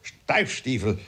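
touch of flustered outrage; indignant father. Acted. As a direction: stumble over words in mild indignation.

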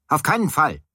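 high, emphatic refusal; erregtes Schreien. A narrator's reading. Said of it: "schrie ich". (hoher, aufgebrachter Widerspruch)

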